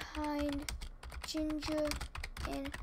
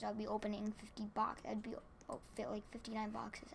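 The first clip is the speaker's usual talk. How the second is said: whispered aside; 6 dB quieter than usual. Real, not acted. Player counting boxes to himself, whispering. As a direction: whisper it under the breath.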